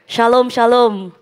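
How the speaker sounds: drawn-out peace greeting; slow blessing. Shown as a demonstration. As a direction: bless them slowly with "Shalom, shalom". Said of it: "diajarin ngomongnya dua kali".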